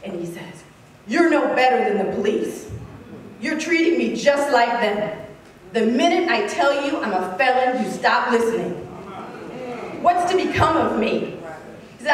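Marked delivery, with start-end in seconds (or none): 1.1-11.4 retold angry accusation, firm and forceful; enraged. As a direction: hurl the accusation, leaning on key words. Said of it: "finally he becomes enraged".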